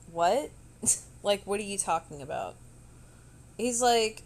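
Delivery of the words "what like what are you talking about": confused. Retold or imitated. Retold confused reply.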